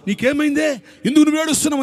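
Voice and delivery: high, gentle questioning angel. Acted. Angel to weeping Hagar, high gentle question.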